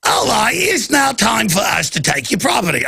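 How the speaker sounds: attempted Aussie that slips into Cockney; high, badly faked Australian-Cockney voice; weird Cockney accent. Shown as a demonstration. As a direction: botch a trendy Aussie accent into odd Cockney. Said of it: "more of a weird Cockney accent".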